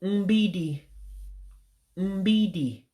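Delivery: teacher modelling umbidi; Igbo word. Shown as a demonstration. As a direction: sound out umbidi syllable by syllable. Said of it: "Wall would be".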